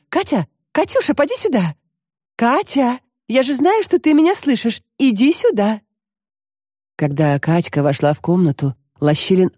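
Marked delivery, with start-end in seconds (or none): 0.1-5.8 higher, coaxing call to the other room; grandma calling Katya out of hiding. Acted. (зовёт из другой комнаты, выше обычного)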